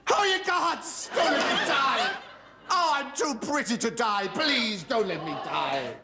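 hammed-up begging. Begging the gods for life.

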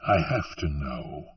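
low, softened patient reply; restrained, patient gunslinger voice. A narrator's reading. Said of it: "the gunslinger said patiently".

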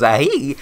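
squeaky ah hee crack; voice-crack squeak. Shown as a demonstration. Streamer imitating his own cracking voice, a squeaky yelp. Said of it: "My voice goes".

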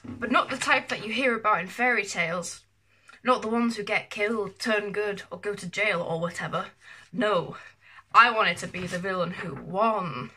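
emphatic, lightly hammed-up villain manifesto; dramatic monologue reading. Vlogger reading own childhood villain monologue, dramatic reading. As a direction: declaim it with mock self-importance.

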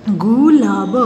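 गुलाब drawn out sound by sound; syllable by syllable. Shown as a demonstration. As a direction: stretch each part of गुलाब. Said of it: "properly बोलना है". (गुलाब को तोड़-तोड़ कर)

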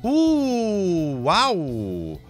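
high surprised wow. Real, not acted. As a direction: gasp in delighted surprise. Surprise at reward.

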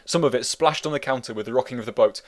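usual speaking voice

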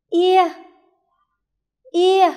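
"Ia" called out high and loud again for the class; drill repetition. Shown as a demonstration. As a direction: belt out "Ia" for them to echo. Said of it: "Cùng cô phát âm lại nào". (đọc to "Ia" cho cả lớp đọc theo)

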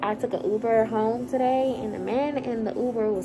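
muffled through a mask; talking behind a face mask. Real, not acted. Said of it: "so I'm talking through this mask".

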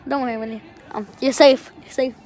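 reassuring. Real, not acted. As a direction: soothe the frightened dog gently. Comforting the scared dog.

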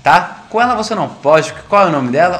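hyped up. Real, not acted. Hyping up his shotgun.

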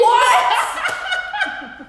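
high laughing shriek of disbelief; surprised. Real, not acted. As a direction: squeal it out in shock. Shocked at the answer.

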